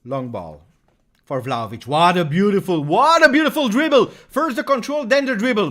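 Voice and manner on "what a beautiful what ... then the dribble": much higher and much louder, in raptures; ecstatic shout. Real, not acted. Fan thrilled by Vlahovic's dribble, ecstatic shout. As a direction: explode with delight at the dribble.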